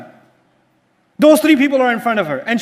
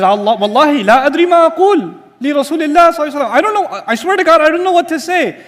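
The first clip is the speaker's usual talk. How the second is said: pleading oath; 4 semitones higher, faster than usual. Retold or imitated. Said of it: "She says".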